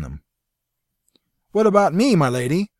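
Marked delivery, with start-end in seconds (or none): 1.5-2.7 loud pleading call; crying out. Acted. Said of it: "Severn cried".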